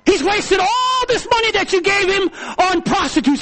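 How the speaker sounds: lightly voiced brother, high and loud accusation; a hint of the jealous brother telling on him; accusing brother. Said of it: "And then he says".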